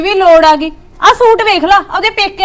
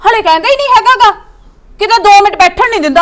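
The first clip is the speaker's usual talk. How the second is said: fast, higher, sharp comeback; angry retort; 4 semitones higher than usual. Acted. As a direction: snap back at him in irritation. Wife snapping at husband. (ਗੁੱਸੇ ਨਾਲ ਤੇਜ਼ ਜਵਾਬ)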